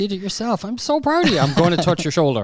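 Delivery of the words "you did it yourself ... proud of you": mock praise.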